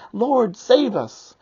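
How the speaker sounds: high, loud, slow plea; desperate cry. Acted. Disciples crying to Jesus in the storm, desperate loud plea. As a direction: cry out for rescue, stretching each word. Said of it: "the disciples cry out a desperate".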